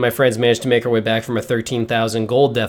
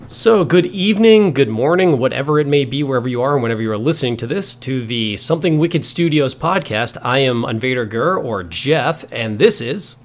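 chipper. Real, not acted. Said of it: "too chipper and too happy".

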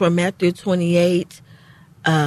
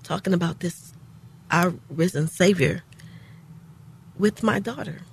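getting emotional; 5 dB quieter than usual. Real, not acted. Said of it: "you're getting emotional".

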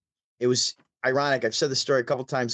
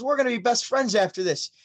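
mimicking comedian; 9 semitones higher than usual. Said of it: "he goes".

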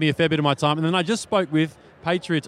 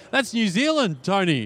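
higher-pitched mock-indignant retort; retold protest, pitched up in disbelief; indignant correction; 5 semitones higher than usual. Australian tells how he corrected Tom about New Zealand, indignant.

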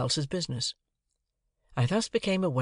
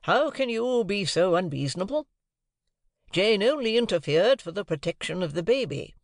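raised, pleading protest; remonstrating husband; 7 semitones higher, 3 dB louder than usual. A narrator's reading. Husband remonstrating with wife across the table, raised. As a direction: appeal to her sense of reason. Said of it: "remonstrated Mister Pocket".

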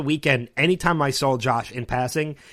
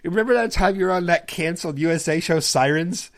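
higher, innocent mock praise; mock teasing question; 4 semitones higher, 3 dB louder than usual. Fan needling actor on panel, mock innocent tone. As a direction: play it like a straight question, then the jab. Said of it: "I was like".

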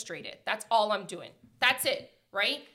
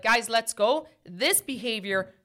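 stern lesson. Retold or imitated. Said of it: "I said it loud".

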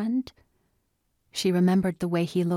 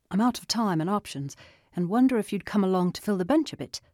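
shouting over machinery; 3 semitones higher, faster than usual. Acted. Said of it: "Adams shouted over the roar of chopping blades".

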